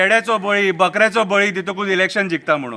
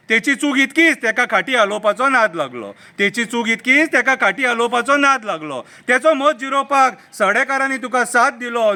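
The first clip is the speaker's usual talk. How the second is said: measured satirical verse recital; mocking political poem read aloud; poem recitation; 3 semitones higher than usual. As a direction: recite it as rhythmic verse, letting the line endings fall.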